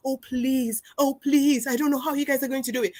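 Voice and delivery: lightly imitated client pleading; mildly beg, as if quoting someone. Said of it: "and pleading with us".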